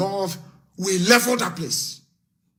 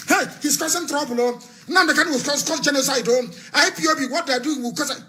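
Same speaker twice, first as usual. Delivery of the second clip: mock whining; 8 semitones higher than usual. Mocking critics of Nnamdi Kanu.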